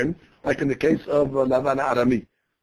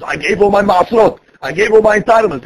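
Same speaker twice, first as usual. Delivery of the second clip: louder, higher self-praise; loud boasting; 3 semitones higher, 5 dB louder than usual. Acted. Speaking your praises over the tithes, mildly loud boast. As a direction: praise yourself out loud, slightly raised voice. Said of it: "They don't say it so loud".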